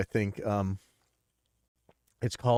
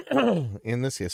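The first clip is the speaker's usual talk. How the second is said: blocked nose, stuffy voice; 3 semitones higher, slower than usual. Real, not acted. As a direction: talk through a stuffy nose. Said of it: "sorry, I'm a little bit stuffy".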